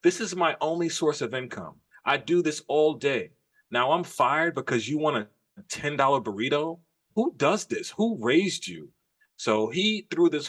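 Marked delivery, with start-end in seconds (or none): 0.0-8.9 quoting the driver. Retold or imitated. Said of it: "this is literally his quote".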